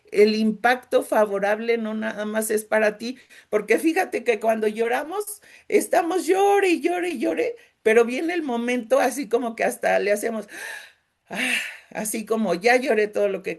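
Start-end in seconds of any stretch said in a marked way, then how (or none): 5.7-7.6 crying and crying. Acted. Describing crying on and on.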